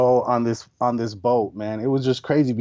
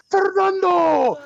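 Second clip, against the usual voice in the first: very high, slow stretched call; calling the name; 4 dB louder, much slower than usual. Retold or imitated. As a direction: sing the name out across the deck. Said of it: "people were saying that to me".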